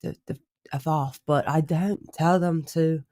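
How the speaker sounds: put-on halting, overdone British accent. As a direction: lay the British accent on a bit thick. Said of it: "going a little too British".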